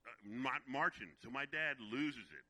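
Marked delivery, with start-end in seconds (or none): 0.0-1.1 mocking echo. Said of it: "He said".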